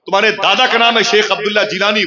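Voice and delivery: high, excited questions one after another; a stranger's rising, excited questions; eager questioning. Acted. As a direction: ask it like you can hardly believe it.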